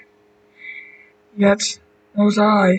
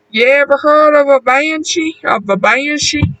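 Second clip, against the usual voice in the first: character voice; 5 semitones higher than usual. Acted. Danny asks about banshee.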